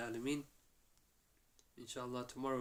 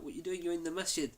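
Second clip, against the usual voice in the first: retold shout; 5 semitones higher, 4 dB louder, faster than usual. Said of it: "they scream, scream and shout".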